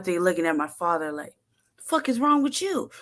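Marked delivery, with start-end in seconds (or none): 1.8-2.9 high incredulous demand. Retold or imitated. Dad staring at his son, high and disbelieving. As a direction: ask like you can't believe it.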